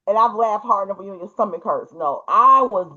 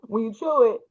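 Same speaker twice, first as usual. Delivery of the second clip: laughing through the words; giggling while quoting; 3 semitones higher than usual. Retold or imitated. Repeat breaks into laughter.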